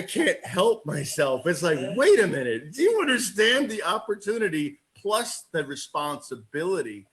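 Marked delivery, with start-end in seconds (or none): 2.0-7.1 excited pep talk. Acted. Salesman pumping up agents, excited and urgent. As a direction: fire them up about the opportunity. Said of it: "I get excited like you".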